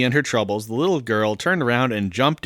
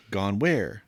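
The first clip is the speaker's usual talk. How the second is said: softer Southern gentleman voice; lightly voiced Southern gentleman; 3 semitones lower, 5 dB quieter than usual. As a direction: gently ask in a put-on Southern accent. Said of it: "Kind of a southern gentleman".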